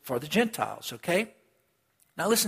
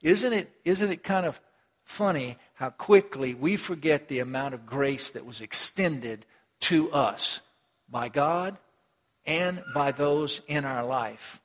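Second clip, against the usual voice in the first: slower emphatic repeat; slower than usual. Shown as a demonstration. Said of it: "Let me say it again".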